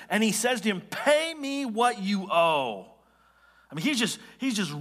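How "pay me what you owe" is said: slow, drawn-out angry demand. Acted. Forgiven servant choking his debtor, angry demand. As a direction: demand payment in anger, each word stretched. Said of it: "You, you sense his anger".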